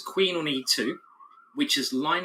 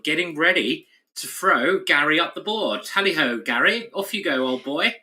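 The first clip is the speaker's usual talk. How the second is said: hammed-up English toff, higher and louder; hammed-up English accent; 3 semitones higher, 5 dB louder than usual. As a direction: call it out like a jolly English gent. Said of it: "can you do a good English accent".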